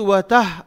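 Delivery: वतह without squeezing the throat; wrong ha. Shown as a demonstration. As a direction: say वतह with a light h. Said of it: "हर्फ बदलने का गुनाह होगा".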